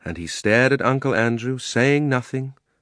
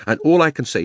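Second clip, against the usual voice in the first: put-on higher, louder, indignant boy; angry; 7 semitones higher, 5 dB louder than usual. A narrator's reading. Diggory rebukes his cowardly uncle, angry. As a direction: start the accusation hotly. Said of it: "flaming with anger now".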